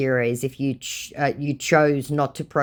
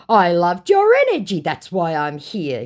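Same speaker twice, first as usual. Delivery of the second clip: mocking scammer voice; 4 semitones higher, 5 dB louder than usual. Reading the scammer's reply.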